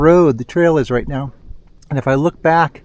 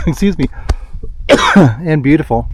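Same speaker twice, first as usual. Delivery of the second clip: coughing on a seed. Real, not acted. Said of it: "one went down the wrong pipe".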